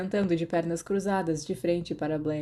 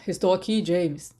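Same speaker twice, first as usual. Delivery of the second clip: quick call; 4 dB louder than usual. Acted. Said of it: "ele gritou rapidamente".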